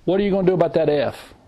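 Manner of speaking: quick, brisk parent question; parent's new question. Retold or imitated. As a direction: snap it out fast as the better question. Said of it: "You know what I asked them?".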